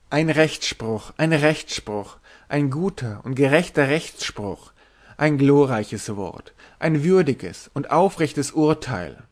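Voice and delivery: slow, drawn-out solemn acclaim; slow ceremonial cheering; chorus cheer. Acted. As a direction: hail the verdict like a crowd in unison. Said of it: "rief die Familie Pest wie aus einem Munde".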